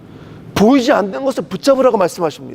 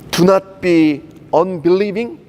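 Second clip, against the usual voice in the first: slow English scripture quote; much slower than usual. Retold or imitated. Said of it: "이렇게 말씀하시는 거예요".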